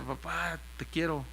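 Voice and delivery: soft, low tender words; quietly affectionate, softened voice. Retold or imitated. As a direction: say it gently to a loved father. Tells father he loves him.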